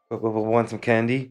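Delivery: stuttered candy offer, lightly voiced; sweet creepy coaxing. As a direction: coax with a stammering start. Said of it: "you saying that's not legendary".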